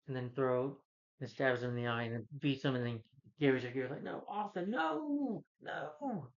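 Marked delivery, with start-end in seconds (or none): 4.0-6.3 high panicked pleading, pitched way up; freaked out. Retold or imitated. Gary begging Arthur to stop, high mock panic. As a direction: squeal no in mock terror. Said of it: "freaked out".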